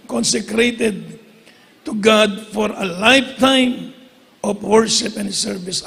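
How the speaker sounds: drawn-out, solemn Bible verse; slow scripture reading. Acted. Preacher reciting the verse to his congregation, slowly and solemnly. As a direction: read each word slowly and solemnly.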